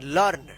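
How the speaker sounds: लर्न with an open 'uh' vowel, 'larn'; 'अ' vowel. Shown as a demonstration. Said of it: "ई ए का अ उच्चारण होगा". (लर्न में 'अ' का उच्चारण)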